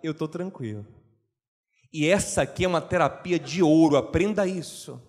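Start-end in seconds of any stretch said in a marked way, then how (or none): 0.0-0.9 calm God. Retold or imitated. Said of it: "Deus diz".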